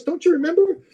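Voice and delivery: lightly voiced old friend asking; teasing friend. Her quote, retold incredulous.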